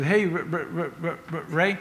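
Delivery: stuck stammering on the R of "Ray"; imitated stutter. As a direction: imitate a boy tripping repeatedly over "Ray". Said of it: "who stuttered".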